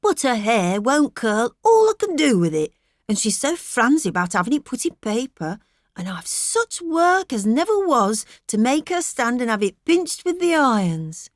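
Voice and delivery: lightly voiced fretful wife; Mrs Tulliver lightly voiced. A narrator's reading. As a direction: fuss like a worried farm wife.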